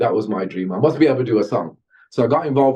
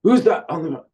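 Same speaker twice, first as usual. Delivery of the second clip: surprised manager; 9 semitones higher, 4 dB louder than usual. Retold or imitated. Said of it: "He goes".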